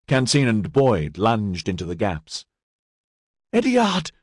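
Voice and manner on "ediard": much higher squealed name. A narrator's reading. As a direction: squeal his name in shock. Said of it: "Canteen squealed".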